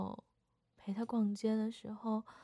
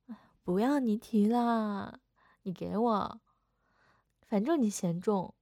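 huffy sister; 7 dB louder than usual. Acted. Sulky sister snatching the bag back.

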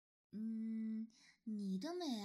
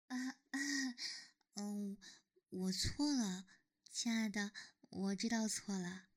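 cutesy whiny pleading; 5 semitones lower than usual. Acted. Apologizing to partner, coaxing.

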